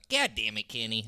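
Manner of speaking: a hint of whiny cartoon kid; lightly voiced bratty cartoon boy; Cartman impression. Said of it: "that's my".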